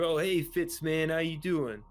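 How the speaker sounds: lightly voiced hearty engineer Ronnie; easygoing crewmate. Ronnie greets Fitz while suiting up Kraus, lightly voiced easygoing crewmate. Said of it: "Ronnie looks over".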